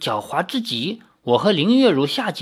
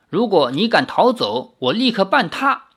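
cold sneer; 4 semitones higher than usual. Acted. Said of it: "太守冷笑道".

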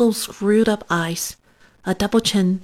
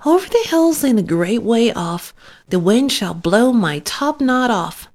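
small muffled voice, a touch higher; smothered little voice; 4 semitones higher than usual. Acted. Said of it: "a little smothered voice chimed in".

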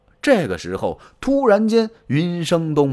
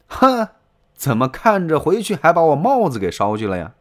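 high, louder mocking scoff; scornful scoff; 4 semitones higher, 4 dB louder than usual. Sun Ce scoffing at Taishi Ci over his helmet, high sneer.

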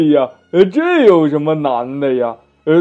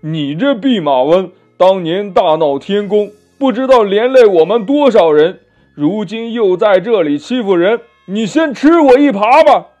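loud, high, building to a shout; angry accusation; 5 semitones higher, 8 dB louder than usual. Acted. Demon blaming the Monkey King before striking, angry and loud. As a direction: berate him, then attack with a yell.

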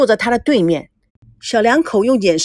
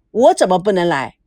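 lower-pitched, curt retort; testy; 3 semitones lower than usual. Acted. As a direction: answer with mild irritation. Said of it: "孙正没好气地说". (没好气地反问)

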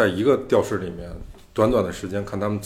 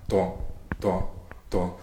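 heartbeat thumps; 6 dB quieter, slower than usual. Shown as a demonstration. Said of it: "跟你心跳的那个反应是一样的".

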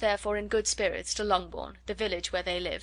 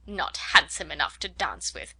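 mocking Darcy; 5 semitones lower than usual. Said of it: "So high and so conceited".

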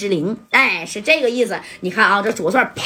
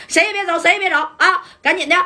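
commanding shout; 8 semitones higher than usual. Retold or imitated. Police pointing guns, ordering halt.

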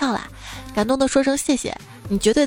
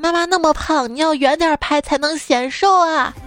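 slow, higher and louder, like a blunt little daughter; little girl yelling; 5 semitones higher, 4 dB louder than usual. Retold or imitated. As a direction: shout it out like a tactless kid. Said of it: "在一边大声嚷嚷". (学小女孩大声嚷嚷)

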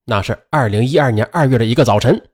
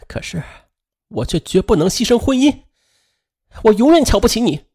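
higher, scornful voice; contemptuous; 6 semitones higher than usual. A narrator's reading. Ex-wife rejecting ex-husband, contemptuous and scornful. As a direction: cut him down with contempt. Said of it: "轻蔑地看着前夫".

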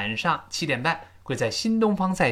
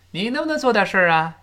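做 stressed in a quick, higher voice; quick raised challenge leaning on 做; emphatic stress; 5 semitones higher, faster than usual. Shown as a demonstration. Teacher showing how to say it, emphatic 做. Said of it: "这么说".

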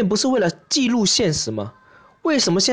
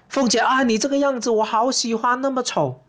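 smitten Pan Changjiang; 5 semitones higher than usual. Acted. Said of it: "潘长江会不会看见凤姐就一见钟情".

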